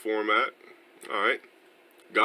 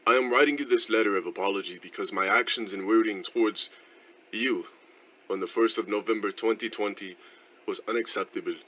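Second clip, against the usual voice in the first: bad English accent. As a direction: read formally in a botched English accent. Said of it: "the worst in-, English accent".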